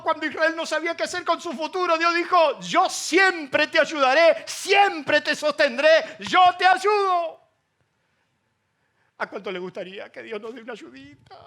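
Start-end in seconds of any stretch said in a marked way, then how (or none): 2.6-7.4 slow emphatic promise. Acted. Preacher voices God's promise.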